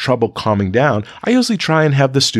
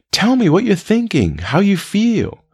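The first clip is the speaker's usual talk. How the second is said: higher-pitched, unhurried gentle invitation; calm voice; 10 semitones higher than usual. Shown as a demonstration. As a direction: calmly coax an upset student to open up. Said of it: "in a calm voice".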